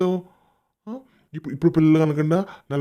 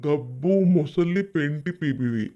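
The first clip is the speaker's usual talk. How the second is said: slow, drawn-out taunt; real jeer, dragged out slowly; taunting name-calling; much slower than usual. Real, not acted. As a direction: stretch out the insulting nickname. Taunting the rival with an insulting nickname.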